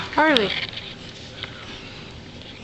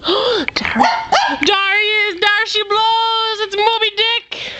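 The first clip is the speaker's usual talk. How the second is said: mock whaler's cry; 5 semitones higher than usual. Sailor spots the dog like a whale, mock excited call.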